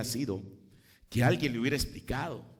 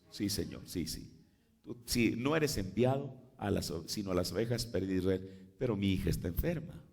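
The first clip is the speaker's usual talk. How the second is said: pleading mother; 6 semitones lower, 4 dB quieter than usual. Acted. Preacher voices pleading mother.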